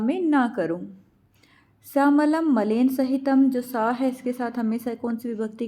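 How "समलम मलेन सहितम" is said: slow dictation. Shown as a demonstration. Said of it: "teacher dictates the answer".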